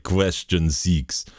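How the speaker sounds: slow, put-on Russian quizmaster accent; drawn-out Russian accent. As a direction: quiz host in a mock Russian accent. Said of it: "I did a full quiz in a Russian accent".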